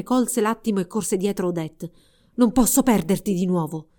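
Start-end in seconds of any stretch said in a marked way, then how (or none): 2.3-3.9 cry out. Acted. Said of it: "gridò".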